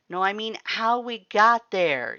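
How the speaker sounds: insist, still frightened; shaken insistence. Acted. Reader pressing Axe about the teleport, loud and shaken.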